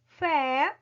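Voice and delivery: FÉ isolated, drawn out and firm; stressed final syllable. Shown as a demonstration. Teacher isolating the accented syllable for pupils, stressed. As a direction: say FÉ alone as the strong syllable. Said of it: "tem aí o acento agudo".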